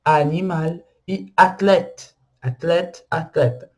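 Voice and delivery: "animal" and "athlète" with open A, French endings. Shown as a demonstration. Teacher repeating examples of open A, pronunciation demo. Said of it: "é um A aberto".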